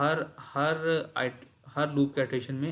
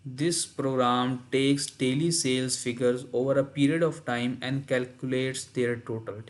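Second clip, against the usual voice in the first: slow reading; much slower than usual. Shown as a demonstration. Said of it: "reads the textbook aloud".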